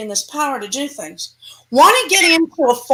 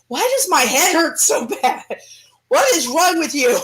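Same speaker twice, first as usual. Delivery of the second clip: whining demon; 2 semitones higher than usual. Acted. Demon complaining in a body.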